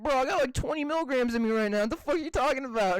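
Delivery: high, fast, flustered; stoned voice. Retold or imitated. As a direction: panicky stoned reply. Retold stoned self, high and fast.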